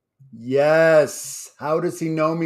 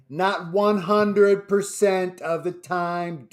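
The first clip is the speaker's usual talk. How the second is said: slow, higher dramatic read; 5 semitones higher, slower than usual. Shown as a demonstration. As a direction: stretch it out for drama. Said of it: "I like how you read it".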